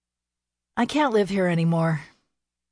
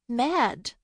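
whine; 7 semitones higher than usual. Acted.

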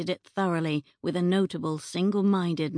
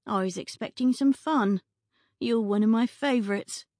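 higher, pouty disappointed plea; pouting; 4 semitones higher than usual. Acted. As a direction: sulk a little as you say it. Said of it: "Beatrice pouted".

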